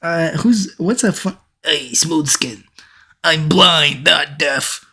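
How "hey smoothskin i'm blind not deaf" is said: lightly voiced Illidan. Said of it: "I'll do it in the voice".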